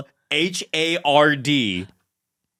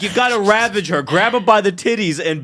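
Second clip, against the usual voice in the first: raised, quick coaching push; mock urging; 5 semitones higher than usual. Therapist egging the husband on, mock fervent urging. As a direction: egg him on, higher and faster.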